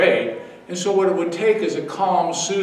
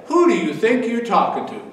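indignant rebuke; 2 semitones higher than usual. Pretend. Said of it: "could have said".

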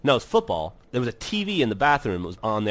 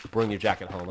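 low-key, lower-pitched retold order; routine mom reminder; 5 semitones lower, 4 dB quieter than usual. Mom reminding her kid after school, matter-of-fact.

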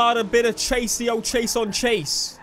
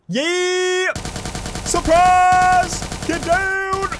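high, loud, drawn-out holler; stretched-out, sing-song yelling; gleeful battle yell; 12 semitones higher, 8 dB louder, much slower than usual. Pretend. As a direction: ambush them with a long high shout. Bursting in on enemies in game.

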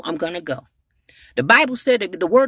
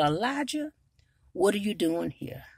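a gentle, softer question; still small voice; 5 dB quieter than usual. Acted. God quietly asking Elijah why he is here, soft. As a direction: ask it quietly, like God leaning close. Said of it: "in a still small voice".

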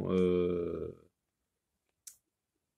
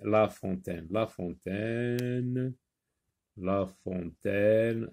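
slow modelling; 3 semitones lower, 4 dB quieter, slower than usual. Shown as a demonstration. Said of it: "le mot fontaine".

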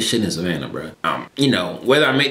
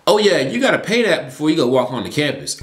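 mock shout; 5 semitones higher than usual. Mom breaks the bill news.

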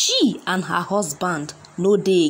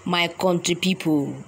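ordinary talk, nothing marked

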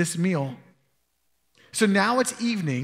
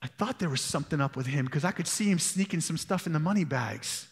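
softer, confiding suspicion; knowing mutter; 4 semitones lower, 6 dB quieter than usual. Retold or imitated. Another disciple muttering suspicion of Judas, softly. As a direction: say it low like you always knew. Others who are like.

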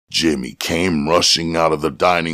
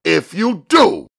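much higher, louder warning; loud statement; 4 dB louder than usual. A narrator's reading. Buddy warning Jimmy, loud and firm. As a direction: lay down the warning firmly. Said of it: "Buddy stated loudly".

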